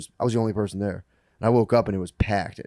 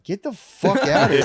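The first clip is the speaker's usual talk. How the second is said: higher-pitched imitation of an angry owner; mock angry yell; 9 semitones higher than usual. Bar owner ordering a customer out, mock angry yell. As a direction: throw him out with a mock yell. Retells owner throwing him out.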